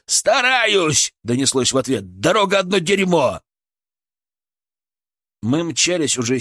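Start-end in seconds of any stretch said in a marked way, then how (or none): 0.0-1.1 high, strained reply; calling back. A narrator's reading. Driver answers angry medic through partition, calling back. 2.2-3.4 calling back. A narrator's reading. Driver shouts back about road.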